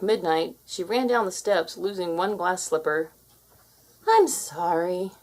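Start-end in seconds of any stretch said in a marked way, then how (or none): 4.1-5.1 apologetic. A narrator's reading. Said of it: "she apologized".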